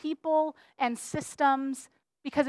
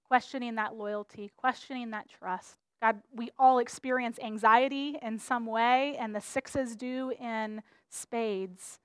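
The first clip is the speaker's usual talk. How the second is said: pastor's prayer; 2 semitones lower, 3 dB quieter than usual. Acted. Pastor praying over the church, soft and earnest. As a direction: pray gently over the congregation.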